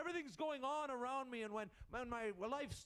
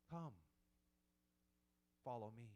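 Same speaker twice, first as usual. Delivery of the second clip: soft beckoning whisper; 10 semitones lower, 6 dB quieter than usual. Pretend. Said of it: "that whisper that beckons to you".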